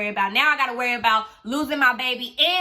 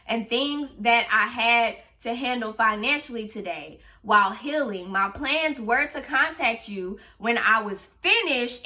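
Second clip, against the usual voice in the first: sarcastic politeness. Retold or imitated. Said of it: "I was being sarcastic as hell".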